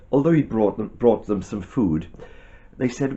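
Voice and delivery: ordinary delivery, nothing marked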